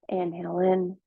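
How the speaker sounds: measured meditation guide with long pauses; guided meditation. Acted. Teacher guiding listeners into their practice, calm guided meditation. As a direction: ease them gently into stillness, leaving space between phrases.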